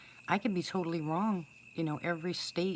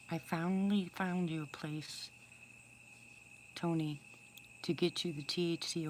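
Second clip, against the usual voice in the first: whisper. Real, not acted. Whispering good news to Tony about his wife. Confiding to bird named Tony.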